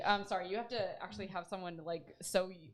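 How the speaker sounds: tipsy, tripping over words; stumbling over words. Real, not acted. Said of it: "I'm stumbling over my words".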